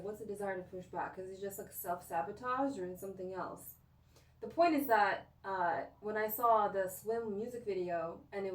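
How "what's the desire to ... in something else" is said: quiet self-questioning. Retold or imitated. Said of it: "push back and be like".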